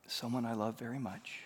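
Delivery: hushed, grieving grandmother, lightly voiced; understated grief. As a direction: break the news softly, with restrained sorrow. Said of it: "and just sobs and sobs".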